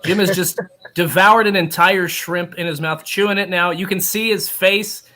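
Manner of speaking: mock sportscaster call; play-by-play. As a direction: narrate it live like a broadcast. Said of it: "Play by play, live".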